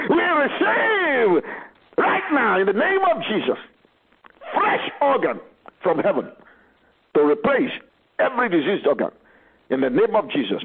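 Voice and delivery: fervent prayer. Acted. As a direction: stretch out the first words. Prayer climax.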